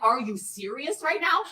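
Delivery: slow, loud incredulous. Retold or imitated. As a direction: drag it out in disbelief. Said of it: "And I'm like".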